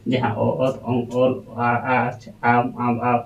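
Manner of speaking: letters sounded as they are pronounced; teacher sounding ᱚᱛ ᱚᱝ ᱚᱞ ᱟᱢ ᱟᱣ; by pronunciation. Shown as a demonstration. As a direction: read each letter by its sound. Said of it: "ᱩᱪᱪᱟᱨᱚᱱ ᱟᱛᱮᱫ ᱜᱮᱵᱚᱱ ᱯᱟᱲᱦᱟᱣᱟ".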